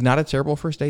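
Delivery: gentle, casual debriefer. Retold or imitated. Instructor debriefs pilot, gentle and casual. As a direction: lightly imitate an instructor letting someone down gently. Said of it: "real gentle, real casual".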